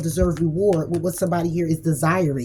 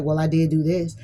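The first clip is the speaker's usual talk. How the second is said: mock justifying partner. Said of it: "this person may justify it like".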